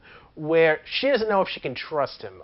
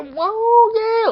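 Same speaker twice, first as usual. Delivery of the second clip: Yosemite Sam yell; 5 dB louder than usual. Retold or imitated. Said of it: "like Yosemite Sam".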